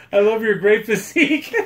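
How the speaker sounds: hammed-up gushing girlfriend, laughing; girly lovestruck girlfriend. Co-host imitating a lovestruck alien in a comedy, girly gushing. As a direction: imitate a girly, smitten admirer through laughter. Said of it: "girliest girlfriend there ever could be".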